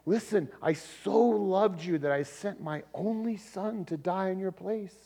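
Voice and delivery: imploring, with heartfelt emphasis; pleading. Retold or imitated. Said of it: "of pleading".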